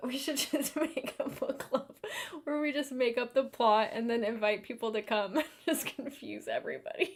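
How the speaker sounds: talking through laughter. Proposing a made-up-plot book club, laughing while talking. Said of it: "I'm actually crying".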